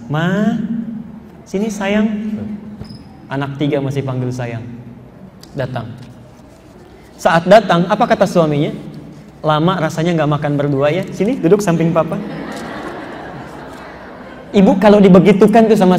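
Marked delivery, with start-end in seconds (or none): 0.1-2.1 soft, tender call to a wife; very sweet. Acted. Husband calls wife over despite salty noodles, very sweetly. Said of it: "ucapan yang sangat manis". 9.4-12.2 mildly tender, softened invitation; sweet husband. Acted. Husband asks wife to sit beside him, gently sweet. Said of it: "ucapan yang sangat manis".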